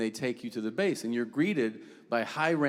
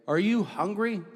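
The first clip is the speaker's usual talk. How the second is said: mock polite guard; 7 semitones higher than usual. Guards' allowed reply mocked.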